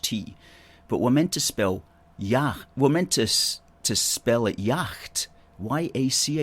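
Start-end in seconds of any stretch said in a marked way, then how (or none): none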